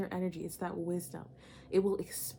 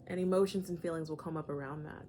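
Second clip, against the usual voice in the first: usual speaking voice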